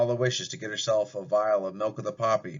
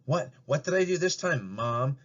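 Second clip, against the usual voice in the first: snapping with attitude; 3 semitones higher than usual. Acted. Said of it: "snaps Susie with attitude".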